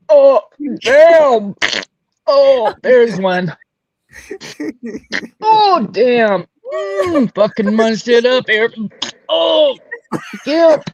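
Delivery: strained grunts between the words; hammed-up straining, groaning through each phrase; grunting, farting act. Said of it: "just a bunch of farting and".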